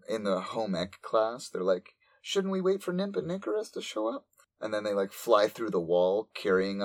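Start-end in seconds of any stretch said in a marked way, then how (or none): 2.2-4.2 classmates. Retold or imitated. Classmates voiced.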